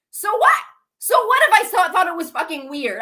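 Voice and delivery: real heated indignation; indignant outburst. Real, not acted. Indignant defence of their own remark.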